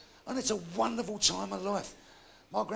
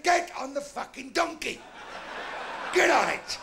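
exasperated shout; 6 semitones higher than usual. Acted. Fed-up dad ordering son onto donkey, shouting.

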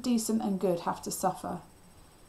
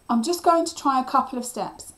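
higher, louder reply; calling back; 6 semitones higher, 6 dB louder than usual. A narrator's reading. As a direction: answer back over the alarm. Narrator reassuring panicking Cliff.

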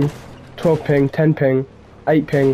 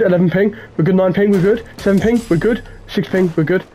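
yelling at a horse race; 6 semitones higher than usual. Real, not acted. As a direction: call it out like a race. Rapid calls while racing in-game.

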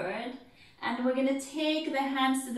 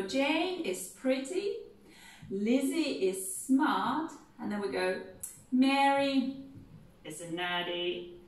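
proud Mrs Bennet. Shown as a demonstration. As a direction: count off each daughter fondly. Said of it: "So we'll go".

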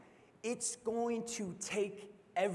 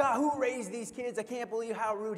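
mock indignant grumble; 4 semitones higher than usual. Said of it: "David gets all frustrated".

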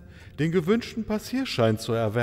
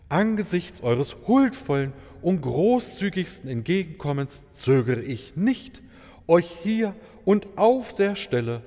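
grandiose proposal; 4 semitones higher than usual. Acted. Maharaja proposes marriage.

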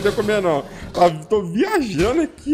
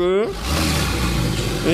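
"isso aí" dragged out low and slow; a mock deep, slowed-down "isso aí"; low slow drawl; 13 semitones lower than usual. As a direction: drop the voice low and stretch "isso aí" out. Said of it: "isso aí, isso aí".

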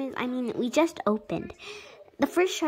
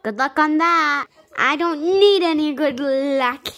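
sarcastic; 4 semitones higher, 7 dB louder than usual. Pretend. Taunting the doctor.

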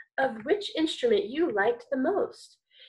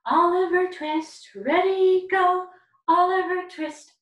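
Mama Bear voice; 5 semitones higher, 7 dB louder, slower than usual. Shown as a demonstration. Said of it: "is our Mama Bear voice".

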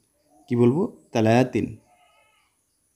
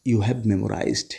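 slow, drawn out; 2 semitones lower, much slower than usual. Shown as a demonstration. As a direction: stretch each word slowly, stress on you. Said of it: "slow English drill". (খুব ধীরে টেনে টেনে বলা)

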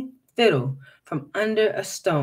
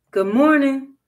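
moderately raised, higher greeting; loud, not too loud; 6 semitones higher, 5 dB louder than usual. A narrator's reading. Jim calls to the hidden cooter, loud but restrained. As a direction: call out, holding back a little. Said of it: "loud, but not too loud".

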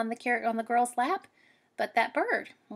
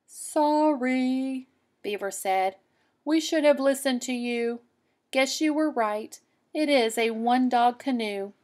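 lightly voiced, a bit louder beaver; sheepish apology; beaver apologizing; 3 semitones higher, 3 dB louder than usual. Beaver to the girl, lightly voiced sheepish.

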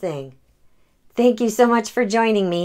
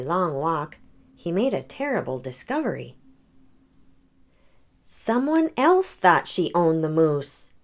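gentle read-aloud storytelling; story narration. A narrator's reading. The speaker reading a picture book to children, gentle. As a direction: read it like bedtime for kids.

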